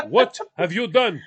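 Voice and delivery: loud mock outburst; hammed-up French indignation; imitated upset Frenchman. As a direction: play a French driver bursting into an outraged rant. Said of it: "That's exactly what French people do".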